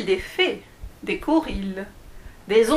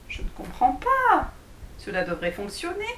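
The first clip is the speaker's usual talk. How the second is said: put-on puzzled girl; 4 semitones higher than usual. Alice puzzled.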